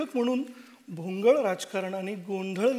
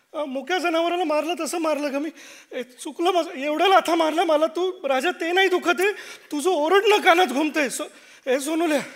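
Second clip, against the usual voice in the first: laughing through guilt; 4 semitones higher, 4 dB louder than usual. Acted. Guilt-ridden father laughing through remorse.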